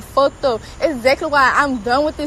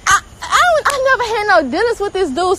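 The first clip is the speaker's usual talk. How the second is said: voice breaking; 6 semitones higher than usual. Real, not acted. Upset rant about fan attacks.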